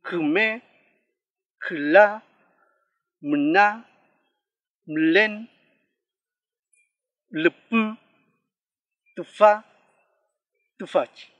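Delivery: kume, kla, mna, mlen, lupu, tufa, tufachi loud, first vowel sunk into the consonant; vowel after consonant. Shown as a demonstration. Teacher reviews the vowel after consonants, loud careful kume, kla, mna, mlen, lupu, tufa, tufachi. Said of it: "Cuando va después de una consonante".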